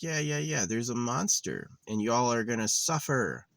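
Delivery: a hint of a smug god shrugging; mock God voice. Voicing God, mocking.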